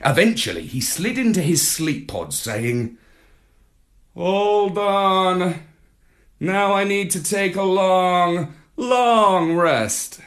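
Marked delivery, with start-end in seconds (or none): 4.1-10.2 Marlowe voice. A narrator's reading. Marlowe tired after game.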